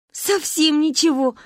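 high, slow, happy agreement; cheerful admission. A narrator's reading. Girls happily admit knowing nothing. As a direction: agree gleefully. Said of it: "радостно закивали мы".

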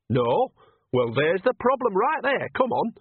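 put-on high-pitched, emphatic old witch; brisk bossy Nanny. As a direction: chivvy her along decisively. Nanny briskly blames lack of drink.

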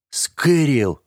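Скэрилл called out high and sharp; indignant cry. A narrator's reading. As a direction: protest his name, outraged. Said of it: "возмутился я". (возмущённый окрик)

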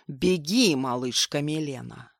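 low growl. A narrator's reading. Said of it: "низким голосом прорычал".

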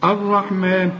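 الرحمن with the lam merged into the ra; lam assimilated. Shown as a demonstration. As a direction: say الرحمن as arrahman, doubled ra. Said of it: "إدغام أهي". (الرحمن بإدغام اللام في الراء)

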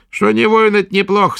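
high, loud crone's demand; gruff old witch. A narrator's reading. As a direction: prod the patient roughly. Witch speaks.

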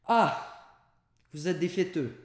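high, loud, delighted exclamation; excited greeting. A narrator's reading. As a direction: burst out happily at the guests. Servant greets guests at the door.

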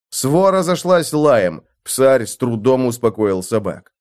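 ordinary delivery

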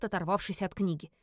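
plain reading voice

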